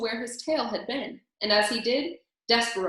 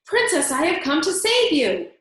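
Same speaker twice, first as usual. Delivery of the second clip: higher, louder rescue cry; heroic shout; 8 semitones higher, 8 dB louder than usual. A narrator's reading. Despereaux calls to the princess, heroic shout. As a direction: announce the rescue with full force. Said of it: "Despereaux shouted".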